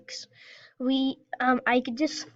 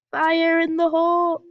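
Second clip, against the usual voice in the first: shouting; 4 semitones higher, 5 dB louder than usual. Real, not acted. Firing cannon, calling out.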